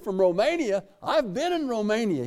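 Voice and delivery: retold surprise. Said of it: "I said".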